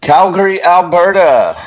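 high, loud proclamation of the city; excited announcement. Real, not acted. Host answers the cohost's question, announcing the city high and loud. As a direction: call it out like a big reveal.

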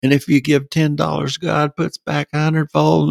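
high, breathless run of preacher promises; preaching doctrine. Retold or imitated. Speaker re-enacting his sermon to the crowd, preaching. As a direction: reel off the doctrines one after the other, pitched high. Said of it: "getting up and preaching all of the doctrine".

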